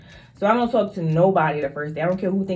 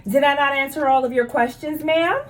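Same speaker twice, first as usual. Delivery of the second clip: firm polite nurse; 6 semitones higher than usual. Retold or imitated. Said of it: "I'm be like".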